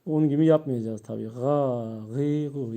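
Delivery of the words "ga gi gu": ga, gi, gu softly and slowly; soft, slow drill; slowly, gently. Shown as a demonstration. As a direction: let ga gi gu out gently. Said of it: "Yavaşça".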